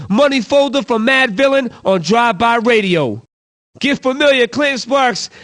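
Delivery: punchy radio announcer read; radio DJ hype. Acted. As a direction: hype the track like a late-night hip-hop DJ. Radio DJ drop announcing tracks.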